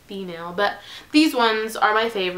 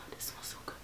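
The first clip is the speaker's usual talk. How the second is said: breathy whispered sigh of delight; hushed whisper over a candle; 24 dB quieter, faster than usual. Real, not acted. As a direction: whisper it, savoring the smell.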